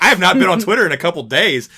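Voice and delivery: laughing through the words; laughing disbelief. Retold or imitated. Telling cohost about surprise Twitter mention, laughing. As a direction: retell it while cracking up. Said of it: "I was like".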